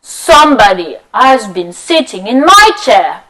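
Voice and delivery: lightly voiced papa bear. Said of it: "And Papa Bear says".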